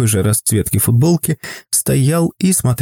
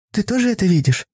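put-on little girl voice; 9 semitones higher, faster than usual. A narrator's reading. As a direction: ask gently like a small girl. Girl asks mother softly. (тихий высокий детский голос)

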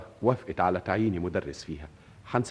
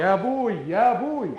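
high teasing imitation of her call; mocking echo; 13 semitones higher, 5 dB louder than usual. Young man mocking the girl's call for her father. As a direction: mimic her cry to tease. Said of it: "mocking her call".

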